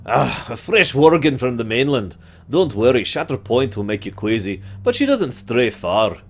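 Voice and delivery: lightly voiced friendly outpost officer; game quest-giver reading lines to the player; NPC quest-giver voice. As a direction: read the quest text as the character.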